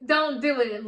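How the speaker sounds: emphatic echo, Don't hit loud; firm repeat. Real, not acted. Repeats the warning to viewers.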